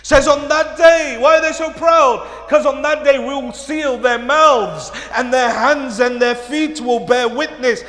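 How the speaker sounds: forceful sermon delivery, projected and driving; loud, dramatic retelling from the pulpit; impassioned preaching. Acted. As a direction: preach it out to the whole congregation.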